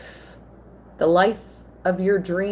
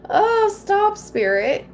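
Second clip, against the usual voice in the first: laughing it off; 14 semitones higher, slower than usual. Real, not acted. Laughing off her own emotion.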